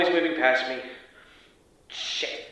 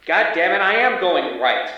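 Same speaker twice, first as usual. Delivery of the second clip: louder, higher, exasperated yell; frustrated outburst; 3 semitones higher, 5 dB louder than usual. Acted. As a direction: snap back at the voice giving orders, slowing on the last words. Agent snapping at radio instructions.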